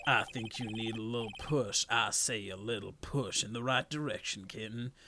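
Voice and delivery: low, soft seductive purr; low sultry voice. Acted. Sultry villain voice.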